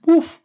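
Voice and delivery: sharp high imitated woof; dog bark. Timmy the dog butting into the Zoom call, loud bark. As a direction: bark like a small eager dog.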